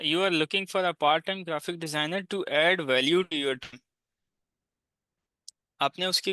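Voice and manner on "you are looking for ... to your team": slow reading aloud. Shown as a demonstration. Reads proposal text aloud.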